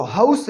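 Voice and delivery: "हाउस" starting with an audible "ha" sound; voiced H sound. Shown as a demonstration. Teacher showing learners the consonant sound, "हाउस" with H pronounced. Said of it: "हा का sound है".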